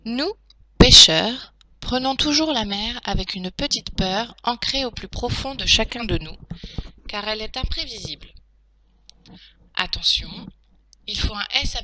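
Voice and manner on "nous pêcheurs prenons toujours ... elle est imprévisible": clear, measured teacher reading aloud; dictation read-through. Shown as a demonstration. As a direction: read the text out distinctly for pupils.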